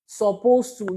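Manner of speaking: "supposed to" set apart and firmly emphasised; stress on supposed to. Shown as a demonstration. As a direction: repeat "supposed to" on its own for emphasis. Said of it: "emphasis on the word supposed to".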